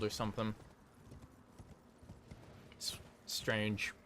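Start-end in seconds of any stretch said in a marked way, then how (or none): 2.7-3.9 whispering. Real, not acted. Aside under his breath.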